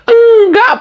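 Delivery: high, loud laughing no. Real, not acted. Host scoffing at JK, loud laughing no. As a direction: burst out with the denial.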